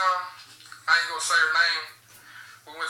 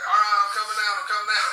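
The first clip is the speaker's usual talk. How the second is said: mock panicked surrender, louder and higher; hurried-sounding surrender call, pitched up; retold freaking out; 4 semitones higher, 4 dB louder than usual. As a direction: imitate a scared teen calling out to give up. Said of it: "I'm freaking out".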